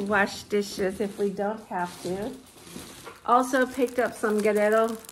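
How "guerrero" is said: Guerrero and tortillas said the Spanish way, with a lightly rolled r in Guerrero and tortillas as tor-TEE-yas; slipping Spanish pronunciation of Guerrero into English talk; Spanish accent. Real, not acted. Showing off her accent on the tortilla brand, Spanish accent. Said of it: "Do you hear me throw in my accent?".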